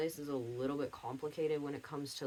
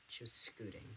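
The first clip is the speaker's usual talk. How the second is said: ordinary talk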